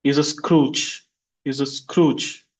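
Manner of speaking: he's a Scrooge, weight on Scrooge; teacher drills for repeating; stress drill. Shown as a demonstration. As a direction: model sentence, slow at the end. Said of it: "repeat after me".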